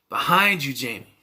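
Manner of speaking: mock yelling. Film fan imitating Randy yelling at the TV, mock yell. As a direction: yell a warning at the screen, half-hearted. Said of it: "He's yelling".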